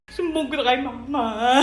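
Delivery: slow, drawn-out tearful whine; crying threat. Acted. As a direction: wail that you're telling on them. Repeats threat to tell, crying.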